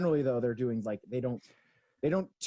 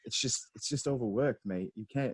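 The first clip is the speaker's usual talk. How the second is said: lightly voiced British baking judge; a hint of British judge, matey; Paul Hollywood. Co-host imitating a judge on an overworked sponge, light British accent. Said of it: "Is that your Paul Hollywood?".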